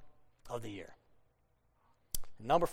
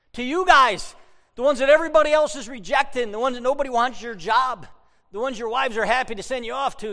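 higher, louder preaching at full force; emphatic preaching; 7 semitones higher, 9 dB louder than usual. Real, not acted. Pastor telling the rejected shepherds the Savior is theirs, loud. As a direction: drive it home with force.

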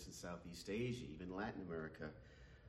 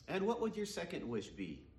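genie voice; 9 semitones higher, 4 dB louder than usual. Acted. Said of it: "he asked".

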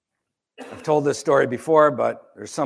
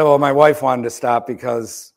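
louder, slower, chuckling through it; laughing reply; 5 dB louder than usual. Retold or imitated. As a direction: laugh a little while explaining. Sheepish reply to the seller.

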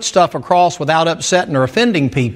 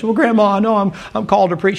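lightly mocked tearful grandson, higher and hurried; bawling boy; 4 semitones higher, faster than usual. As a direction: imitate an upset boy pleading, pitched up a little. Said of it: "he's bawling and crying".

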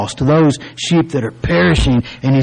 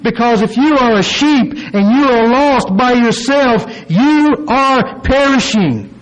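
higher-pitched, insistent sermon delivery; emphatic preaching; 6 semitones higher than usual. Real, not acted. Preacher urging that lost sheep are perishing, emphatic preaching. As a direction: drive each point home to the congregation.

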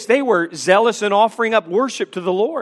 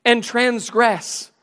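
high-pitched, mock-inviting scripture reading; sarcastic; 3 semitones higher than usual. Preacher reads God's sarcastic call to Israel's worshippers, sarcastic. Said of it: "there's sarcasm in chapter four".

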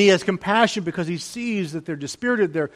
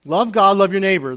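higher and louder, ringing out; preaching emphasis; 4 semitones higher, 8 dB louder than usual. Real, not acted. Pastor proclaiming the two great commandments with force. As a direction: proclaim it to the back row.

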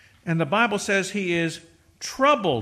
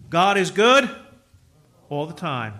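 God is good called out louder; loud refrain; 4 dB louder than usual. Real, not acted. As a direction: proclaim it to the congregation. Congregational refrain.

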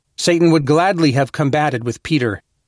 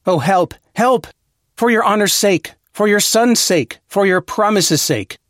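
higher, pleading cry for help, rising on help; a soul under temptation cries out to the Lord, higher and pleading; desperate cry to God; 4 semitones higher than usual. Retold or imitated. Tempted man begs God for help, higher desperate plea. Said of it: "a man cries out and says".

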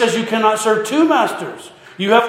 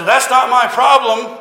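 mock annoyance, higher pitched; disgruntled neighbor; 4 semitones higher, 4 dB louder than usual. Disgruntled neighbor answering the farmer's apology, mock annoyed. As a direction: play the mildly fed-up neighbor. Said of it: "this disgruntled neighbor calls".

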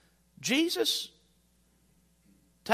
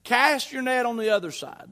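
mild holler; 3 semitones higher, 3 dB louder than usual. Acted. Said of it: "Jesus hollers back".

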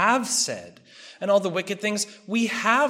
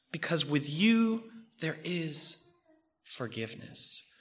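softer and lower until whispered; fading to a whisper; 3 semitones lower, 7 dB quieter than usual. Acted. Preacher repeating the psalm verse, fading into a whisper. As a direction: let the verse die into a breath.

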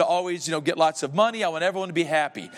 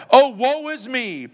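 mock lament; 7 semitones higher, 4 dB louder, slower than usual. Ghost laments aloud.

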